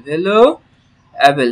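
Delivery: ভ্যালুয়েবল drawn out very slowly, syllable by syllable; slow teacher demo; slow model word. Shown as a demonstration. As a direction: stretch it so learners hear each part. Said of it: "teacher models the word".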